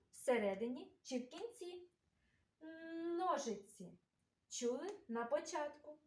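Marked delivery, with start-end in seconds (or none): 3.2-4.0 "Ножиці" with its first N held long; sound-position demo. Shown as a demonstration. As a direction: linger on the Н opening "Ножиці". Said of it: "де знаходиться звук Н".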